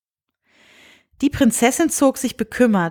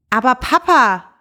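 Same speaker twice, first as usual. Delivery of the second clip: higher, louder cry of dismay; shocked; 4 semitones higher, 5 dB louder than usual. Acted. Princess shocked at her father's words, louder dismayed cry. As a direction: gasp it out in horror. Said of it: "rief sie entsetzt".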